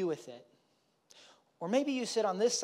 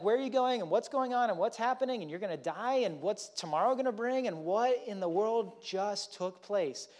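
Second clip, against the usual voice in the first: imitating freaked-out disciples, higher pitch; mock panic; 4 semitones higher than usual. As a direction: rattle off the questions in a light panic. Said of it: "freaking out a little bit".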